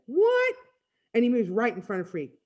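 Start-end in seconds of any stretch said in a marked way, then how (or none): 0.1-0.6 high, loud, indignant what; affronted, high-pitched outburst; sharp challenge. Acted. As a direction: fire it back as a challenge. Blade challenges Freak.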